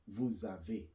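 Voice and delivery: "avez" ending in é, with silent z; French é ending. Shown as a demonstration. Teacher recalls a conjugation, French é ending. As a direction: say "vous avez" as voo-za-vay. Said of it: "it still sound A".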